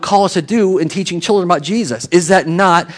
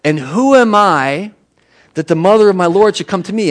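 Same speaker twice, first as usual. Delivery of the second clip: mildly exasperated; 4 semitones higher than usual. Acted. Elizabeth marvelling at Mary's visit, lightly exasperated. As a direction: draw out the question, then hurry the rest. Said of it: "this kind of exasperated thing".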